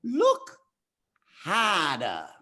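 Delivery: a loose Rafiki impression from The Lion King. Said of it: "in my best Rafiki voice".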